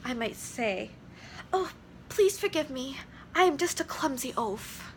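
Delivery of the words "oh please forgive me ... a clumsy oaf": placater. Shown as a demonstration. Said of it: "If I was a placater".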